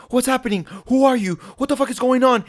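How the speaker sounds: high-pitched retold bewildered alarm; mock panic. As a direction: imitate a panicked kid demanding answers. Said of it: "like, panic and shit".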